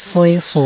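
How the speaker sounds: heavy, full-mouthed s in সই, সু; fattened, rounded s on সই, সু; thick emphatic S. Shown as a demonstration. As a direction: say সই, সু with a thick Arabic Sad. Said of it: "মোটা করে পড়বেন".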